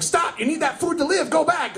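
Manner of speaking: high, pleading brain voice; urgent inner voice. Retold or imitated. Comic's brain ordering him back for food, urgent. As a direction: beg yourself to turn around.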